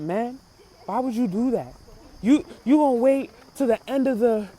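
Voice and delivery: dead-serious, insistent reproach. Retold or imitated. Big cast member towering over a rapper, dead serious. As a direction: confront him in earnest, driving each point home. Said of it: "He was dead serious".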